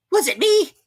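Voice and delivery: high squeaky surprised question. Acted. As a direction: sound genuinely puzzled. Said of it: "a little surprised".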